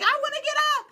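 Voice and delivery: high, loud pleading yell; pained yell. Retold or imitated. Standing on nails, yelling to the coach in pain. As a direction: beg to be let off, hurting. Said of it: "I know I was yelling 'cause I was in pain".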